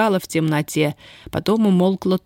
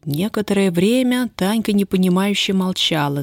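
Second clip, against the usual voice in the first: ordinary delivery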